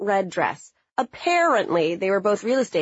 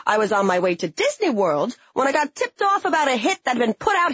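detective announcement. Retold or imitated. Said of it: "Rocky was a hoot".

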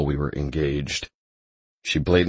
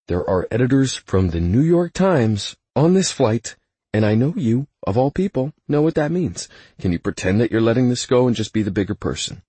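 higher-pitched, coaxing mediator; a hint of an exasperated peacemaker, pitched up; lightly voiced Brenton; 5 semitones higher than usual. Go-between asks Emily to let it go, lightly voiced coaxing.

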